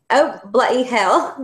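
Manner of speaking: slow, amateur British or Australian accent. Shown as a demonstration. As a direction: attempt a drawn-out UK or Aussie accent. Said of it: "my U K or my Australian accent".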